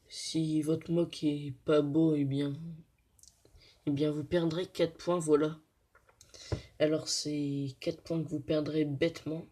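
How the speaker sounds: hoarse, sick voice with a sore throat; speaking through a sore throat. Real, not acted. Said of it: "c'est pour ça que j'ai une drôle de voix".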